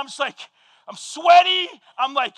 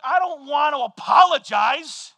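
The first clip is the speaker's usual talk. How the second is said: mock stubborn whine. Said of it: "And I'm like".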